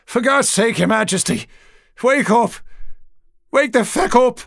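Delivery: high, loud panicked shouting; desperate shout to an unconscious king; frantic yell. Acted. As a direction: scream at him to wake up. Frightened man yelling at king.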